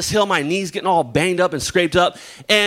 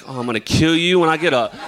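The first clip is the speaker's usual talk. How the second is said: laughing threat. Retold or imitated. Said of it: "I'm like".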